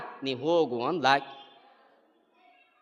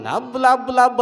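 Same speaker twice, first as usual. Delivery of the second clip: high-pitched imitation of wailing; mock wailing; 6 semitones higher, 5 dB louder, slower than usual. Storyteller imitates the mother-in-law joining in, mock wailing. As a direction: take up the wail in comic bursts. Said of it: "ಚಲೋ ಮಾಡಿದ".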